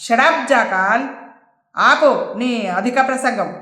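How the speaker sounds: bold, emphatic put-down; boldly. Acted. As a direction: silence the henchman with a bold boss's command. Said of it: "అన్నాడు రాంబాబు ధైర్యంగా". (ధైర్యంగా గద్దిస్తూ)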